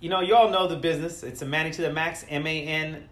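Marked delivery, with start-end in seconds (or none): 1.2-3.1 stumbling tipsy spelling; tipsy stutter. Real, not acted. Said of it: "I'm all stuttery".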